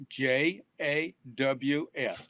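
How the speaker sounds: slow, letter by letter; deliberate spelling with space between letters. Shown as a demonstration. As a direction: spell out "J A W S" slowly. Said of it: "the correct pronunciation is".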